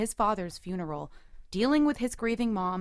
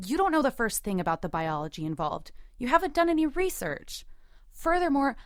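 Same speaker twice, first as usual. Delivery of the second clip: indignant argument; 3 semitones higher than usual. Acted. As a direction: argue back with rising force. Heated argument over having children.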